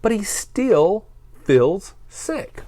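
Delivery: slow hushed whisper; whispered refrain. A narrator's reading. Narrator whispers that Bear is still sick. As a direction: breathe the line out sadly.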